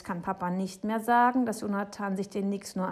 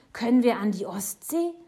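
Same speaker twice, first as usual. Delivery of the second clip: loud, eager question; hopeful call; 4 semitones higher, 9 dB louder than usual. A narrator's reading. Boy asking Papa for a trip, eagerly loud. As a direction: ask it raised and full of hope. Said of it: "ruft er".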